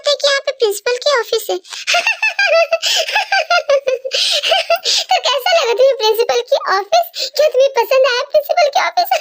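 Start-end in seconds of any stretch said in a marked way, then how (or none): 1.6-5.0 high, gleeful mocking laughter; a prankster cackling at his joke. Prank works, boy laughs. 5.1-9.1 taunting through laughter; teasing the girl he fooled; mocking laugh. Mocking after the prank.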